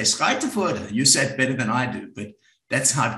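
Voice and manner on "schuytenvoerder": "Schuytenvoerder" said the Dutch way, a touch higher; "Schuytenvoerder" pronounced carefully in Dutch; Dutch name. Shown as a demonstration. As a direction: sound out "Schuytenvoerder" as a Dutch speaker would. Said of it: "look at that name and say".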